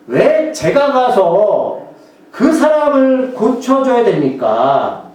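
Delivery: slow, drawn-out protest; arguing back. Retold or imitated. Ananias arguing with God, mild slow protest. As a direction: mildly press God with each word. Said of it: "라고 따지는 겁니다".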